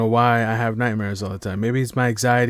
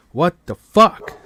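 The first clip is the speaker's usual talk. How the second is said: shocked; 7 semitones higher, 8 dB louder, slower than usual. Retold or imitated. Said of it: "I'm like".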